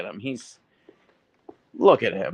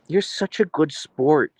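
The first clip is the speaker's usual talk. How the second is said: tender praise; 5 semitones higher, slower than usual. Real, not acted. Praising the dog.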